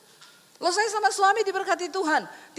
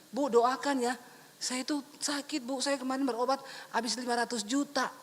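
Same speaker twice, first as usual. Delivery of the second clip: softer, mock whiny plea for prayer; mock pleading; 4 semitones lower, 6 dB quieter than usual. Stingy churchgoer begging the pastor for prayer, mock pleading.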